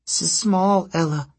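high, slow, stuttering harpy voice; angry stutter. A narrator's reading. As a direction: trip on the first sound, sulky and cross. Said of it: "she stuttered angrily".

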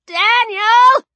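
very high, loud rising cry; little boy's panicked shout; Jack. Acted. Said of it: "Jack said".

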